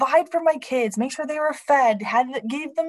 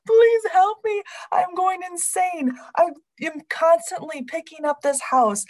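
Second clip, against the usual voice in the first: mock inner scream; 2 semitones higher than usual. Mom overwhelmed by chores, pleading for help. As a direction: beg for help, half-laughing at yourself. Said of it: "on the inside, I was screaming".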